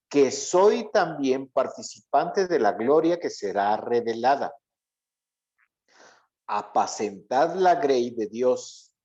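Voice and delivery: measured, deliberate Bible reading, slightly slowed; scripture reading. Acted. Pastor reading Peter's letter to the class, measured and solemn. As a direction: read the verse aloud to the group.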